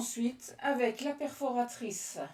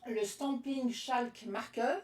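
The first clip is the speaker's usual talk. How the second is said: brand name said in a slow, put-on English accent; Stampin' Chalk Marker in a light English accent, slowly; slower than usual. Shown as a demonstration. Crafter naming her marker in a mock English accent. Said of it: "avec mon accent anglais".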